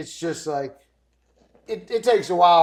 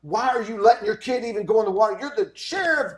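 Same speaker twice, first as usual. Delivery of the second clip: mock exasperated scolding, quick and a touch higher; retold yelling; 3 semitones higher than usual. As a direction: tell off the sheriff, half-hearted yell. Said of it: "like, yelling".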